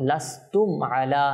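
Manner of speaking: slow লাস্তুম আলা, m released straight into the ayn; clear m, no ghunnah. Shown as a demonstration. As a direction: keep the m of লাস্তুম clean, no humming. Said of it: "কোনো গুন্না হবে না". (লাস্তুম আলা, গুন্না ছাড়া স্পষ্ট মিম)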